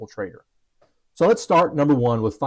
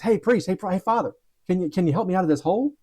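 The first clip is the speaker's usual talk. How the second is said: raised pleading call from below, rushing the ask; calling for help; 5 semitones higher than usual. Retold or imitated. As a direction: call up out of the hole, begging a passer-by. Man in hole calls priest.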